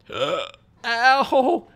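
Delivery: sudden hiccup yelp. Real, not acted. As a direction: hiccup mid-breath. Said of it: "I was breathing and hiccuped".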